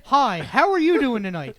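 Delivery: friendly greeting. Retold or imitated. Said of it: "Like, in a very nice way".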